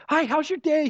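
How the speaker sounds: high, loud cheery greeting; bubbly mock greeting; bouncy and happy. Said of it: "She was all bouncy and happy".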